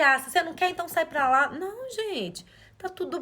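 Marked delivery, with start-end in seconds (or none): 0.0-1.5 dismissive mother. Retold or imitated. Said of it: "eu poderia falar assim".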